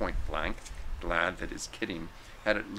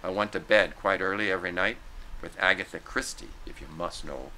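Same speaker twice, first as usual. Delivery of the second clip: indignant; 4 dB louder than usual. Acted. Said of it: "bristle indignantly and replied succinctly".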